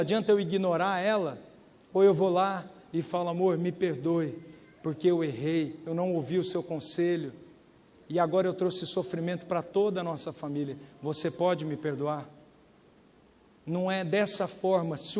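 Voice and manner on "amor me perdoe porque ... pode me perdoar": tender apology. Retold or imitated. Husband asking his wife to forgive him, softly and humbly. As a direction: ask her forgiveness gently.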